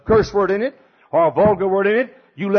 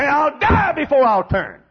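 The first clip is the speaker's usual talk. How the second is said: defiant vow; 7 semitones higher, 3 dB louder, slower than usual. Acted. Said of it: "Folks that'll say".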